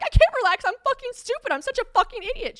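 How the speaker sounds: very high, loud yelling; frantic self-berating. Retold or imitated. Told by a friend to relax, yelling in panic. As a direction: lash out at yourself in a retold meltdown. Retold refusal to calm down.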